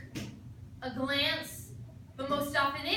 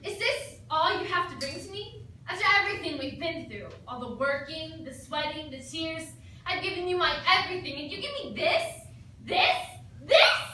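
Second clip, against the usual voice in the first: mock accusation. Acted dramatic accusation.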